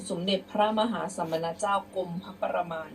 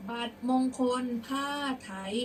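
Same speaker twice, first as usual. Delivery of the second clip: raised, measured model reading; prose-style recitation; 3 semitones higher than usual. Shown as a demonstration. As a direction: read out verse clearly for pupils. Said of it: "เดี๋ยวครูจะอ่านเป็นร้อยแก้ว".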